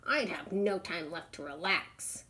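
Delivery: lounging turtle who can't be bothered; lazy turtle voice. Acted. Turtle brushing off a plea for help, lazy.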